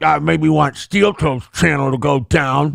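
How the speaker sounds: lightly voiced mumbling mock of a streamer; mocking the panhandler. Streamer mocks a rival's quote, lightly voiced mumble. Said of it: "And he's like".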